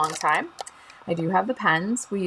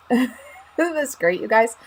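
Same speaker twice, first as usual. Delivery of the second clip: laughing; 3 semitones higher, 4 dB louder, slower than usual. Real, not acted. Excited crafter shows stress ball.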